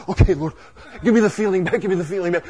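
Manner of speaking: mock pleading. Backslider begging the Lord for the feeling, mock pleading. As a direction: send up a needy last-minute prayer. Mocking a backslider's hurried prayer.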